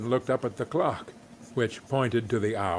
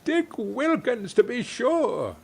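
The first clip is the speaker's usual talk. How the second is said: put-on higher, slow fond old voice; fond recognition; 9 semitones higher than usual. A narrator's reading. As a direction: remember a friend with delight. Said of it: "said Scrooge to the ghost".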